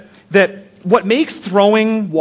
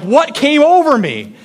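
much higher, shocked self-question; shocked at himself; 7 semitones higher than usual. Retold or imitated. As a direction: gasp at what you just did. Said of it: "I'm like".

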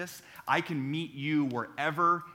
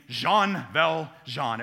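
breathy voice; 5 dB louder, much slower than usual. Shown as a demonstration. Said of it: "say with kind of a breathy voice".

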